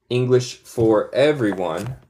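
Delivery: slow, separated words; unhurried, word-by-word book title; slow, careful title. Shown as a demonstration. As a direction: read the title out carefully for learners. Names book slowly, then normally.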